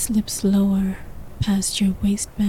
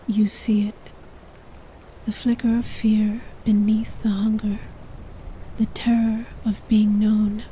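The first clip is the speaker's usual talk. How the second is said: whispered narration; faster than usual. A narrator's reading. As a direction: whisper the story close to the mic. Whispered throughout.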